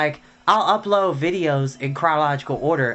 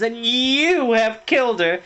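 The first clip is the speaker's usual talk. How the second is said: lightly voiced twin; 9 semitones higher, 5 dB louder than usual. A narrator's reading. Twin accusing, voiced higher.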